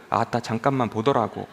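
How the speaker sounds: Jeolla regional accent; Jeolla dialect. Shown as a demonstration. Preacher showing how regions ask to pass, Jeolla accent. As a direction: say it like a Jeolla local. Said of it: "전라도".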